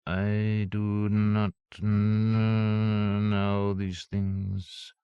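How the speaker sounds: very slow, croaking machine voice; harsh robot croak. Acted. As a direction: grind out each word like an old robot. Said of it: "a harsh croak".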